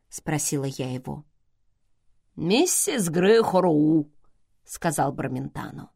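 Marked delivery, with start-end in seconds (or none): 2.3-4.1 slow, deliberate naming; measured, lingering announcement; drawn-out reveal. Acted. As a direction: stretch the name out. Bormentano reveals a name.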